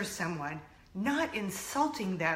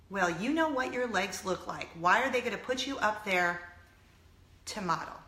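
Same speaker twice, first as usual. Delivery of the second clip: lower, sober echo of a put-down; dismayed repeat; 3 semitones lower, 4 dB quieter than usual. Retold or imitated. Repeating a mother's words to viewers, dismayed. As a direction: repeat it softly, letting the hurt sink in. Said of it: "That's what her mother said".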